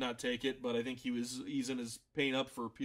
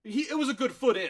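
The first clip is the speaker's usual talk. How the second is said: exasperated; 8 semitones higher, 5 dB louder than usual. Real, not acted. Exasperated recap.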